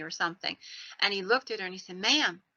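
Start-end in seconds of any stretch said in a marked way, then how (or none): 2.0-2.4 lightly imitated Southern drawl; Southern accent. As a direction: say it with a hint of the South. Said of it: "with his Southern accent in place".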